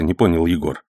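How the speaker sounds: plain reading voice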